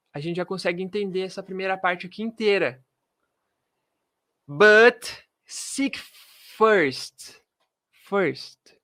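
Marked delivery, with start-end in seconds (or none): 4.5-8.8 very slow, drawn-out verse reading; slow, deliberate Bible reading. Shown as a demonstration. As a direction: stretch each word out for the class. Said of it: "teacher reads verse slowly".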